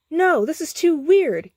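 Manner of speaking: loud, very high outcry; exclaimed. A narrator's reading. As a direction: burst out in distress. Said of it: "he exclaimed".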